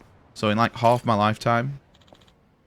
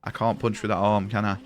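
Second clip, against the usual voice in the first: put-on Scottish accent; 4 semitones lower, 4 dB quieter than usual. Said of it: "This is my Scottish accent".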